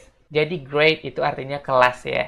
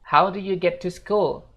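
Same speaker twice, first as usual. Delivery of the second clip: slow, higher model question; model sentence; 6 semitones higher, slower than usual. Shown as a demonstration. Teacher presents the example question slowly. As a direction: read it slowly and clearly. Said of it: "Kita lanjut".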